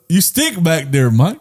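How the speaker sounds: slow, drawn-out Middle Eastern accent. Shown as a demonstration. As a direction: demonstrate a Middle Eastern accent, drawing the words out. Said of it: "That's Middle Eastern".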